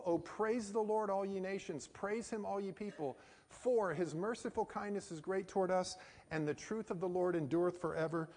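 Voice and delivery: measured psalm recitation; scripture recitation. Real, not acted. Preacher walking students through the psalm's content, measured recitation. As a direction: recite the verse deliberately, phrase by phrase.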